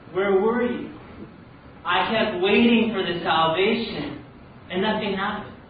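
mock-indignant protest; aggrieved complaint. Drowned man complaining to angel, aggrieved.

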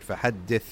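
"فحدث" with the closing th clearly released; audible final tha. Shown as a demonstration. Teacher making sure the last letter is heard, enunciated tha. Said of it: "make sure it's heard".

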